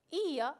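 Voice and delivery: "ia" with a long, stressed i. Shown as a demonstration. Teacher reciting the next accented ending, stress on the i of "ia". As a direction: put the weight on the "i" of "ia". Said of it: "la i lleva acento también".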